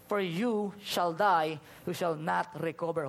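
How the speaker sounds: slow, weighty prophet's decree; prophetic decree. Acted. Isaiah pronouncing doom on the sick king, slow and weighty. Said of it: "came to him and said".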